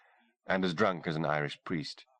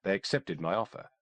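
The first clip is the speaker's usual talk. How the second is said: higher, poised woman's voice; composed, a touch amused; lightly voiced doctor; 3 semitones higher than usual. Kimberly tells the sergeant where she was born, lightly voiced woman. Kimberly explains her mission.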